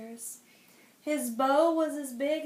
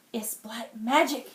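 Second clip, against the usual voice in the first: shriek; 4 dB louder than usual. Acted. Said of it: "he shrieked".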